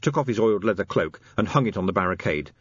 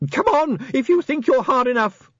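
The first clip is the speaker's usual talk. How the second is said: very high, loud battle challenge; wild scream; 5 dB louder than usual. A narrator's reading. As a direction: scream the challenge wildly at the enemy. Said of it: "he screamed wildly".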